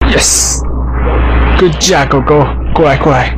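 talking to a dog. Real, not acted. Praising and calling dog.

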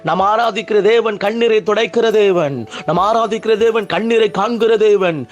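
sustained, insistent sermon cadence; fervent preaching. Real, not acted. Preacher promising believers their tears will be wiped away, fervent preaching. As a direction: press each promise home like a revival preacher.

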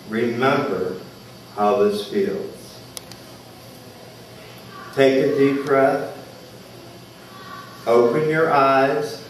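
measured meditation leader with long pauses; unhurried, spacious guided-meditation delivery. Real, not acted. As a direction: guide listeners gently inward, pausing between phrases.

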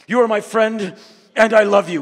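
loud, high, openly heartfelt; sincere declaration. Retold or imitated. What men cannot say to each other, said loud and openly heartfelt. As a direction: say it straight from the heart. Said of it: "We just can't say".

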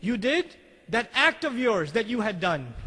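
slow, pointed, loaded with hidden meaning; a king hinting at a crime; slow insinuation. Shown as a demonstration. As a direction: lean on each word like a veiled threat. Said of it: "See the way he said it?".

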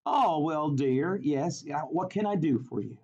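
lightly voiced Southern old lady; little old lady with a hint of Southern accent. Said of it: "she has a Southern accent".

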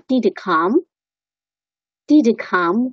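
"Did come" said as "di-di come", no h; weak form of HE. Shown as a demonstration. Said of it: "学了这个弱读". ("Did come"读成"didi come"，he弱读)

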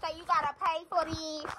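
soft, held-back call. Real, not acted. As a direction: call it out quietly. First, softer try at calling out.

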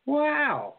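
a big amazed wow at the pot. Retold or imitated. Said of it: "I was like".

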